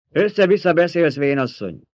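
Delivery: put-on high, loud child's retort; scornful rebuke. A narrator's reading. Alia scolding the old woman, scornful rebuke.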